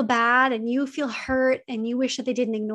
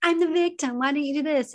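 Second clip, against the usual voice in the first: a higher, goading mock victim; mock narcissist baiting; 3 semitones higher than usual. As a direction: needle them like a victim picking a fight. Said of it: "They're pulling you into their emotional, like, fight".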